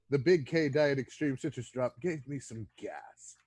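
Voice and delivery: lightly voiced theatrical villain. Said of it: "I like how you had to use your villain voice for that".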